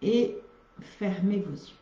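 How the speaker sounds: unhurried guiding voice with long pauses; guided relaxation. Real, not acted. Yoga teacher starting the relaxation, calm guided-meditation delivery. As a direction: ease listeners into stillness, phrase by phrase.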